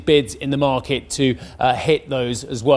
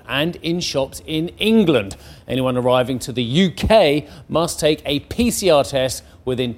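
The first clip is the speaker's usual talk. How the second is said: measured newsreader delivery; crisp headline-story read; news read; 3 semitones lower than usual. Acted. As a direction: read it as a bulletin, landing key words. Reads the news bulletin.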